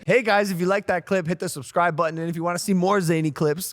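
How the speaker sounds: upbeat channel outro read; video outro plug. Acted. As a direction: sign off like a video host. Reads the video sign-off.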